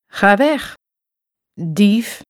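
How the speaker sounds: hoog geroepen; roept. A narrator's reading. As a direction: roep het de dief toe. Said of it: "roept hij". (hoog roepen naar de dief)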